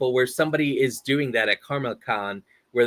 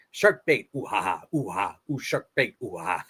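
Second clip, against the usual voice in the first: Finding Nemo impression; 4 semitones lower than usual. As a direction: chant it low and tribal. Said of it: "my Finding Nemo impression".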